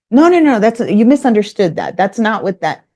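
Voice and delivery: loud, high cutting-in, then easing; talking over someone. Retold or imitated. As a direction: imitate someone butting in to correct. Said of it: "talking over me again".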